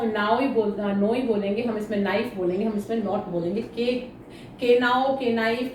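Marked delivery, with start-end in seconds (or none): 3.6-5.7 "के नाउ" with the silent k wrongly said aloud; wrong k sounded. Shown as a demonstration. Teacher showing students the wrong way with the k spoken. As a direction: voice the k before "नाइफ" on purpose to show the mistake. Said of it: "के not ऐसे नहीं बोला जाता".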